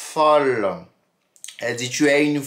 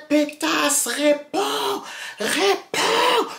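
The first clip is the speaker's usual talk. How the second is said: high, sharp shrill demand climbing on each word; angry insult; 12 semitones higher, much slower than usual. Retold or imitated. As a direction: spit out the insult, then demand an answer higher. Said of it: "elle dit, ah".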